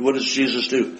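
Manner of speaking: ordinary talk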